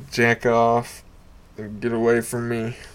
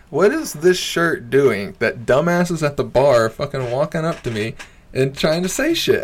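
higher-pitched, incredulous questioning; exasperated rant; 4 semitones higher than usual. Retold or imitated. Comic retelling complaint about hecklers, exasperated. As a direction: replay it as a baffled complaint.

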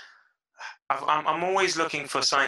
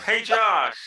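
ordinary talk, nothing marked

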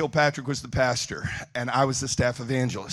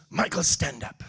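imitating the bishop; 4 dB quieter than usual. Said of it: "That's what he sounds like".

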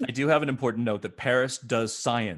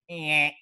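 weird eh sound; 3 semitones higher than usual. Retold or imitated. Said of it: "you make this weird sound".

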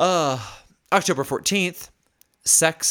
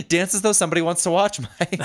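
laughing through a fast rewording; amused rushed misquote; 5 semitones higher than usual. Retold or imitated. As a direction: giggle it out quickly. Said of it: "twists the quote laughing".

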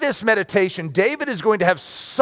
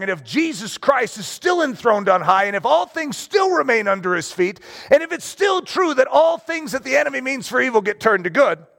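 preaching climax; 3 semitones higher than usual. Real, not acted.

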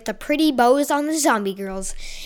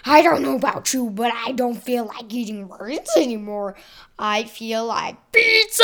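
grotesque monster voice. Acted. Zombie speaks after learning to talk.

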